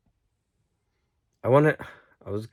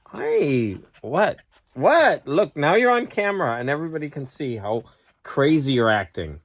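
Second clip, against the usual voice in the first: talking to the dog; 3 semitones higher than usual. Real, not acted. Scolding the dog on camera.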